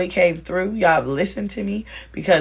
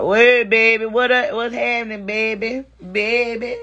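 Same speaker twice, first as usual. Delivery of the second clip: mock Louisiana sweet-talker's accent; bad Louisiana accent. Comic mimics a Louisiana man greeting his baby, bad accent. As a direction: have another go at a Louisiana accent. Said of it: "that was really bad".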